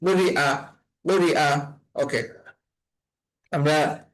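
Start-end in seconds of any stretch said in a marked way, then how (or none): 0.0-1.5 "আ" in "উরি আ" started with a hamza catch, no y sound; hamza, no ya glide. Shown as a demonstration. Teacher correcting a ya reading, "আ" sounded as hamza. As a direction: say "উরি আ" with a firm break before "আ". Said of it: "হামজা এর উচ্চারণটা হবে".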